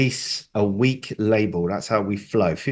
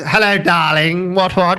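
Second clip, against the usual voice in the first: sultry high-pitched darling voice; femme fatale; 5 semitones higher, 4 dB louder than usual. Pretend. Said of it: "What is that voice?".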